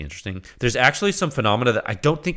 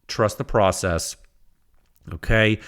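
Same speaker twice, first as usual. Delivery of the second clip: ordinary talk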